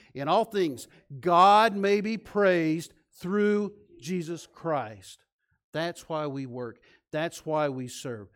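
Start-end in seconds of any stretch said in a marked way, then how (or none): 0.1-5.2 louder, very slow drawn-out recital; repeat recitation. Real, not acted. Pastor repeats the verse with congregation, louder and slower. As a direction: stretch every word and lift the room with it. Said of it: "One more time".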